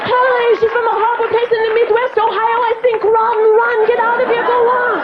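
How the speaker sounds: high-pitched mock French accent, hurried warning; French-accented kid shooing friends away; embarrassed French kids. A French-accented kid warns friends about the Ohio mother, embarrassed and urgent. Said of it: "people that have French accents".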